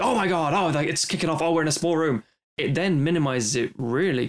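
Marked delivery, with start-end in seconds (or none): 0.0-2.2 higher, excited alarm; lightly voiced sudden panic in a tight room; mock panic. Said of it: "suspense drama, like".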